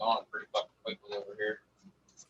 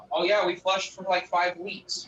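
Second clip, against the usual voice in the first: smug grower boast; 7 semitones higher, slower than usual. Retold or imitated. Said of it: "And you're like".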